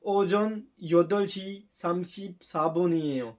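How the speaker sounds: slow, careful Korean time announcement; slow Korean test recording. Retold or imitated. Teacher imitating the exam recording, slow Korean. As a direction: read each Korean syllable slowly and clearly. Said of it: "फिर वो कहेगी".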